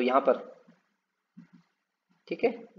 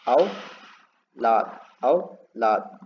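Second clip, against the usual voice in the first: औलाद very slow, the औ held long; drawn-out word; 2 semitones lower, much slower than usual. Shown as a demonstration. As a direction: stretch the औ in औलाद. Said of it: "ऐसे लिखा जाएगा औलाद". (औ खींचकर औलाद)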